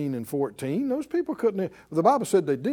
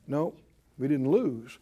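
normal talking voice

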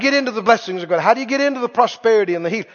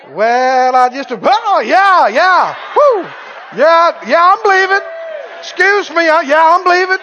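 jolted believer; 5 semitones higher than usual. Pretend. Pretend believer poked by the hot stick, yelping. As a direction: yelp like you just got zapped with a hot stick.

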